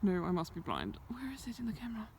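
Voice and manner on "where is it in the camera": hushed whisper; whispered question. Real, not acted. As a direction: keep it down, scared. Scared, whispering on the hill.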